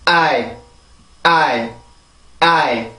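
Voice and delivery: "I" as one falling beat, the diphthong "eye"; stressed vowel only. Shown as a demonstration. Teacher drilling rhythm, stressed vowel I alone. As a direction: give I alone as the big beat of island. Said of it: "모음만 가지고 리듬을 볼게요".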